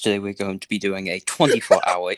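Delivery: hammed-up online challenge announcer; mock vlogger intro. Baboon player parodies a challenge-video intro, mock vlogger patter.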